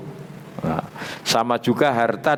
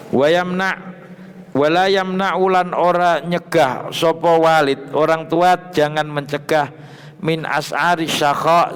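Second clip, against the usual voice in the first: raised, chanting read of Arabic text with Javanese gloss; kitab recitation; 4 semitones higher than usual. Acted. Teacher reading the kitab aloud to students, raised chant-like recitation. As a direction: intone each phrase then gloss it.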